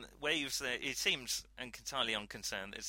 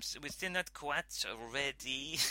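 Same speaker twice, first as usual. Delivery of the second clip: put-on terrible French accent. French scientist stalling the captain over cargo, terrible French accent. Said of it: "there's a terrible accent in there".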